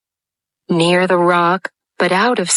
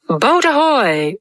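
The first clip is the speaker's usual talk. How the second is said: calling out; 6 semitones higher than usual. A narrator's reading. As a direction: hail the boat across water. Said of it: "rang over the lagoon in Hook's voice".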